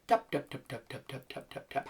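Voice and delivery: soft rhythmic tapping words, fading out; whisper-light, in time with the taps; gentle, soft. Shown as a demonstration.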